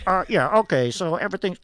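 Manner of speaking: loud control-booth intercom announcement; voice from above. Acted. Director in the booth talking down to stage, loud intercom voice. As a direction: call it out like a director over the speaker. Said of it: "voices from above".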